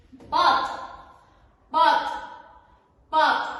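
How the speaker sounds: modelling the word. Shown as a demonstration. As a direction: say بط clearly for the class.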